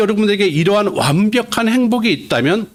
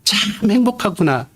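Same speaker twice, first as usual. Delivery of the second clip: exclamation of wonder; 4 semitones higher than usual. Shown as a demonstration. Preacher demonstrating the Beatitude as a cry of wonder. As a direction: linger on 참 as if truly moved. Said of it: "이렇게 읽으셔야 된다는 것입니다".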